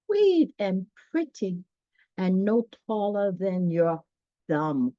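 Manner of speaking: put-on gentle, slow read-aloud to children; storybook narration. A narrator's reading. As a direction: read it like a bedtime picture book.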